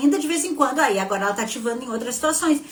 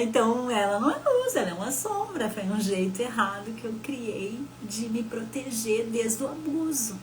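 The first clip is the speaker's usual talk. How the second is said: tearful; 5 dB quieter than usual. Real, not acted. Falando do abuso, choro ouvido.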